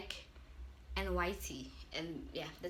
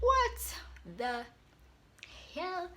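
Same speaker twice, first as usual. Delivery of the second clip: inner disbelief; 7 semitones higher, much slower than usual. Retold or imitated. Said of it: "In my mind".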